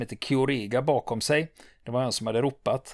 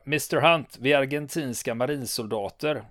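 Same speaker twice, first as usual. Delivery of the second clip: calling out. Retold or imitated. Argentine lieutenant calls out to the British, retold shout. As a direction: call out to the defenders, then ease off. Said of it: "Och den rösten ropar".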